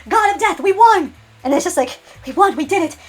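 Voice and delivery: high excited victory shout; 1 triumphant cheer. Acted.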